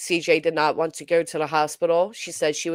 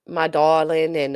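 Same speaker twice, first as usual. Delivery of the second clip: catchphrase; 4 dB louder than usual. Retold or imitated. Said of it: "She had a lot of catchphrases".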